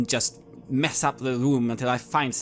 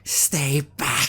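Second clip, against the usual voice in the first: shout; 2 semitones higher, 3 dB louder than usual. Acted. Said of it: "and I shout".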